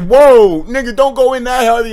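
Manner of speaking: retold alarm. Warning friend, retold.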